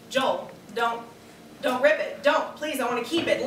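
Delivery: half-hearted first plea to her husband; timid pleading. Acted. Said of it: "let me hear you say it like you mean it".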